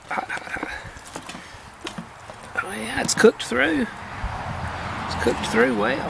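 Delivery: talking around a hot bite; breathing out over hot food; mouth full of hot food. Real, not acted. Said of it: "Ooh, it's hot".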